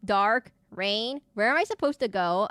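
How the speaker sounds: mock lost-player calls, word by word; loud, halting replay of being lost; imitating confused self. Streamer replaying herself lost in Outlast, confused. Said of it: "which is me being like".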